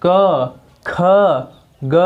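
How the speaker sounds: क, ख, ग said one at a time from the throat; teacher sounding out क ख ग for the class; demo of throat sounds. Shown as a demonstration. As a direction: sound out क ख ग clearly with a pause between. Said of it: "बोल कर देखिए".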